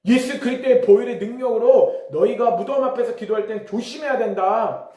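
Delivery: re-enacted fervent prayer, slowing at the end; forceful prayer declaration. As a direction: proclaim it as a prayer warning. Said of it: "기도하기 시작했어요".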